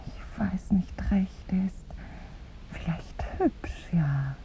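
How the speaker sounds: very soft, slow whisper; almost swallow the words; faint whisper. Acted. Woman shyly whispering her doubt. Shy, uncertain admission.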